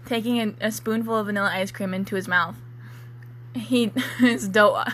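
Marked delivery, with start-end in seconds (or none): 3.5-4.8 laughing. Real, not acted. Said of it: "I'm so sorry".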